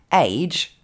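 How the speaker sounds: AGE said slowly with a long "ay", like "aydge"; isolated word AGE, drawn out as "aydge"; standalone English word. Shown as a demonstration. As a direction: demonstrate AGE with a full diphthong. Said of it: "se prononce ainsi".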